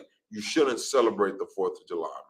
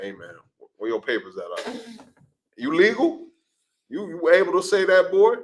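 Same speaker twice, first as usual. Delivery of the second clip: hammed-up sneering officer, climbing higher; mock cop; 7 semitones higher, 3 dB louder than usual. A cop questioning a Hispanic man, mockingly high. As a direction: taunt him with a high sneering voice. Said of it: "They go like".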